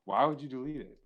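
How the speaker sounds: stunned, confused. Retold or imitated. Asking a friend about the deleted video, mock-stunned and confused. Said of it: "stunned and confused".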